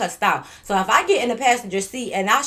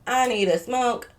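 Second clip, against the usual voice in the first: dramatic pause; 2 semitones higher, 4 dB louder, slower than usual. Retold or imitated. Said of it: "when I said".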